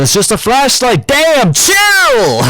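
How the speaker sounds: high, loud, casual brush-off; dismissive shrug. Retold or imitated. Antonio brushing off the blinded classmate, dismissive. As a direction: wave off the fuss. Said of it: "And he goes".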